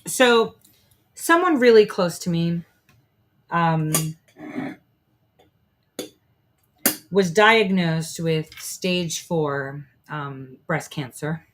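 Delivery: choked up, cigarette in mouth; slow, talking round a cigarette. Real, not acted. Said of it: "so I don't cry".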